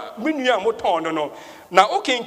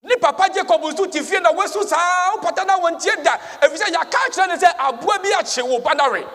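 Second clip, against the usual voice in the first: higher, urgent preaching delivery; raised pulpit storytelling voice; 8 semitones higher, 3 dB louder than usual. Acted. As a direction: preach the father's grief with energy. Preaches at full force.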